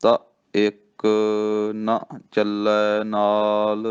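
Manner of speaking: ਤ ਇੱਕ ਨਾ ਚੱਲੈ ਨਾਲ recited slowly, word by word; measured scripture reading; slow correct recitation. Shown as a demonstration. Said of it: "ਇਹ ਕਹਿਣਾ".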